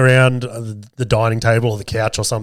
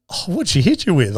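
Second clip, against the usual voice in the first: put-on higher-pitched curious kid; lightly voiced boys; 6 semitones higher than usual. Sons quizzing dad about Nanny, curious. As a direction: mildly imitate a son's eager question. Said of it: "And they're like".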